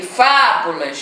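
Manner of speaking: fábulas slowly, leaning long on FÁ; stressed FÁ drawn out. Shown as a demonstration. Teacher showing the antepenultimate syllable, long FÁ in fábulas. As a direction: stretch the first syllable FÁ in fábulas. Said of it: "que é a antepenúltima".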